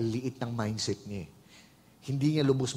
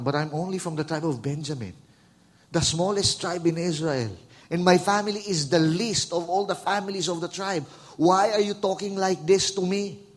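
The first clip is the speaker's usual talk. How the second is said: Saul protesting; 5 semitones higher, 5 dB louder than usual. Retold or imitated. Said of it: "Sabi ni Saul".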